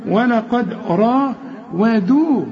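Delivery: "را" full, "ودو" thin and light; correct heavy-light contrast. Shown as a demonstration. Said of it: "واخد بالك".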